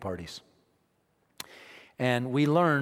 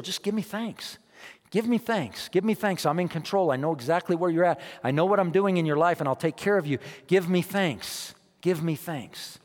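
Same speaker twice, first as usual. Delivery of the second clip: lightly voiced God, higher and gentle; a hint of God speaking tenderly to his people; voicing God; 3 semitones higher than usual. Preacher voicing God asking Israel for thanks. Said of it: "God said to the children".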